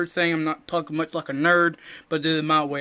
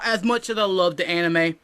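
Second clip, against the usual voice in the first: weeb host voice; 3 semitones higher, 8 dB louder than usual. Acted. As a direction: pump it up like an over-eager anime fan. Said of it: "I don't know why I'm talking like this".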